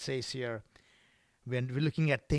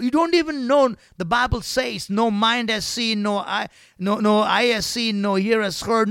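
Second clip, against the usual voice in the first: loud proclamation; 6 semitones higher, 8 dB louder than usual. Acted. Preacher proclaiming scripture to congregation, loudly. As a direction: build it up to the crowd.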